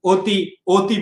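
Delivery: অতি said "oti", with a rounded o; closed initial vowel. Shown as a demonstration. Teacher giving students the pronunciation, অতি said with closed "o". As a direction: begin অতি with an ও sound. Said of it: "উচ্চারণে অতি আসবে".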